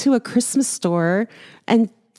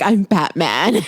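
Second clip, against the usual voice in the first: Batman; 6 semitones lower than usual. Retold or imitated. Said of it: "And he's like".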